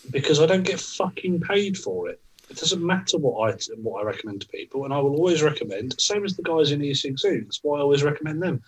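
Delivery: heated swearing rant; swearing tirade. Real, not acted. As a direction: rant at the bad shops. Rant against bad vape shops.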